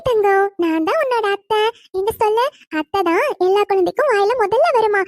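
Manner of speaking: put-on high, sing-song cooing to a baby; baby talk. Aunt coos at baby Abi, coaxing her to say aunt, high baby talk. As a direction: coo up high like an aunt playing with a toddler.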